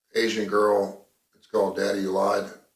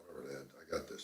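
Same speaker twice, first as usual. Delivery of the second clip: dismissive daughter; 7 semitones lower, 21 dB quieter, faster than usual. Acted. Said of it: "You know what she's gonna say".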